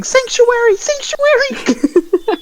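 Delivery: high, loud, drawn-out cry; yelling for sanctuary. Acted. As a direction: beg for refuge at full voice. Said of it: "he starts yelling".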